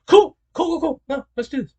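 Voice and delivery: a hint of an easygoing pharmacist; eager pharmacist. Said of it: "the pharmacist's gonna be like".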